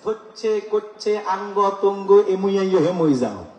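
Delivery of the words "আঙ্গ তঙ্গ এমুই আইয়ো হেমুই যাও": lightly mimicked Noakhali dialect, falling away; a playful hint of Noakhali speech. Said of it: "আবার নোয়াখালী".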